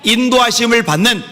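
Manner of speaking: loud, high preaching over music; preaching blessing. Acted. Pastor blesses the congregation, loud preaching. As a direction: proclaim the blessing with full force.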